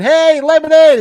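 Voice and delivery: high, loud heckling call; mock crowd shout. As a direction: imitate fans hollering at a celebrity. Crowd calling out to Ice-T.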